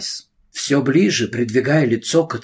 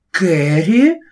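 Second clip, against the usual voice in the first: loud, sharp outcry of the name; sharp exclamation; 6 semitones higher, 6 dB louder than usual. Acted. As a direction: snap the name out in alarm. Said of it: "воскликнула мисс Прайс".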